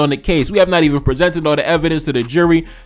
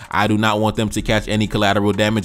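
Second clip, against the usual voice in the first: calming himself down; 6 semitones lower, 5 dB quieter than usual. Real, not acted. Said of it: "I be getting passionate".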